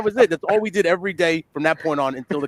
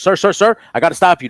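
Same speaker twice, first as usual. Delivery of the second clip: louder urgent calling after someone; 5 semitones higher, 6 dB louder than usual. Retold or imitated. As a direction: stop a man walking away. Coworker calling after thief.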